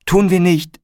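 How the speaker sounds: high, whiny mock-crying reply; tearful wail. A narrator's reading. Corinna to Felix after his threat, high tearful wail. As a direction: promise it in a high, lightly acted wail. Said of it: "heulte Corinna".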